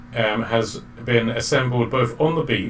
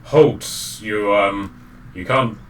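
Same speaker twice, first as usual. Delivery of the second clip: hesitant guard, raised voice that falters midway; half-hearted challenge; 5 dB louder, slower than usual. Acted. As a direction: call a halt without conviction. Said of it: "rather half-heartedly".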